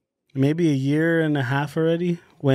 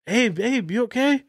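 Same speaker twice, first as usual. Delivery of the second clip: imitating calling through a door; 8 semitones higher than usual. Knocking on bathroom door again.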